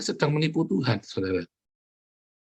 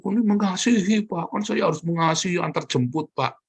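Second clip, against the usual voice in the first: higher, sing-song innocent excuse; mock pious excuse; 6 semitones higher than usual. Preacher mimicking a cheating husband's innocent excuse. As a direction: play the cheater pretending to be loving.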